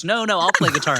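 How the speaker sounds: half-hearted celebrity impression; a singer. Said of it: "That's not your best impression of a singer".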